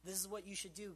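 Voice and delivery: a slightly demanding mock prayer; an eager instruction to God; bossy retold prayer. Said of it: "I find it time and time again where I'm like".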